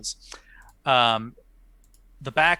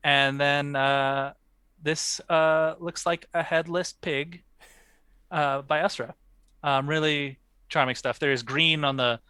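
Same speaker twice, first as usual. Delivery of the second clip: languid pretentious art snob; unhurried, lofty gallery critique; art critic voice. Pretend. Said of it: "in your best, uh, art critic voice".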